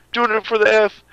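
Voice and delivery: high hammed-up announcer voice; mock announcer voice. Shown as a demonstration. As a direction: belt it like a hype man.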